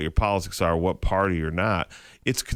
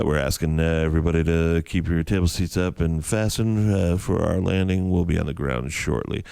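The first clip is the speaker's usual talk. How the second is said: a hint of a calm captain; nice and calm; 5 semitones lower than usual. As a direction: read it easy like nothing's wrong. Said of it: "saying it nice and calm".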